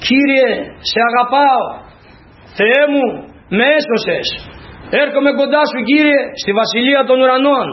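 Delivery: acted fervent prayer call. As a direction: cry out to the Lord, without shouting. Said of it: "φωνάζω".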